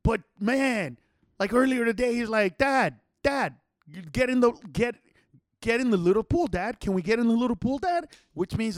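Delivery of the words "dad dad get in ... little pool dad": lightly voiced pleading child; slightly higher, imitating a small son; hint of a toddler begging; little kid. Imitating three-year-old asking dad.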